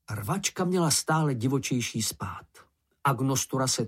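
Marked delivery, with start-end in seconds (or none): none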